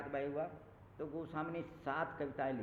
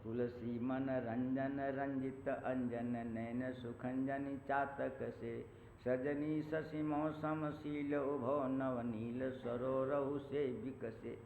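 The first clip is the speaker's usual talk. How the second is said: slow, drawn-out verse recital; poem recitation; much slower than usual. Acted. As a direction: recite each line slowly, savouring it. Continues the verse. (धीमे स्वर में कविता पाठ)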